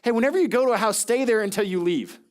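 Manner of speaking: mocking paraphrase. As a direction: parrot Jesus's words back in disbelief. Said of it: "Sometimes Jesus speaks and like".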